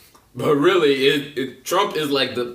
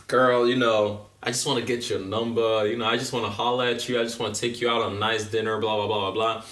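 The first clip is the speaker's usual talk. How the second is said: smooth-talking guy. Retold or imitated. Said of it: "that dude who try to holler at a chick".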